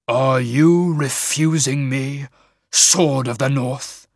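slow, menacing rumble; shaman's rumbling challenge; low rumble. Acted. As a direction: drop into a slow, weighty threat. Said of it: "voice dropped to a low rumble".

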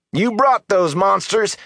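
high, drawn-out accusing roar. A narrator's reading. Villager blaming the Aes Sedai for monsters, roaring. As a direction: roar the accusation, stretching the words. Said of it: "Darl roared".

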